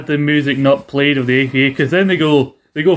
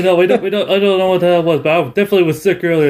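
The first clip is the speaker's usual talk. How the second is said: higher, hurried flustered denial; flustered excuses; 4 semitones higher, faster than usual. Retold or imitated. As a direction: rush out the lame excuse.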